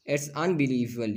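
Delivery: "It's unbelievable" slowly, with a falling tune; drawn-out "It's unbelievable", dropping at the end; falling intonation. Shown as a demonstration. Teacher showing exclamation intonation, slow falling "It's unbelievable". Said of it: "यहाँ पर falling intonation हुआ".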